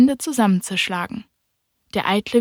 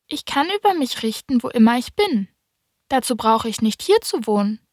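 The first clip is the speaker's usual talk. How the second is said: put-on lightly raised boyish voice, earnest; little prince; 3 semitones higher than usual.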